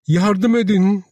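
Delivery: high, urgent yell; shouting for help. A narrator's reading. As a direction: call out for help over the chaos. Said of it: "diye bağırdı".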